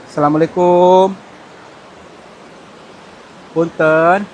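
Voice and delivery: loud greeting into the cave; loud, drawn-out salam; calling out. Real, not acted. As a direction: call out to the unseen host.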